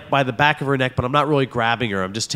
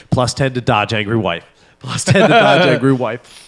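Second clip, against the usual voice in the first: game announcer voice; 2 semitones lower than usual. Pretend. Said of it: "I'm role playing".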